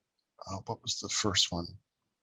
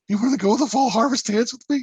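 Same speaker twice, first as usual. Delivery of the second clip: put-on nervous teen invite; 13 semitones higher, 7 dB louder than usual. Mock asking celebrity to dance.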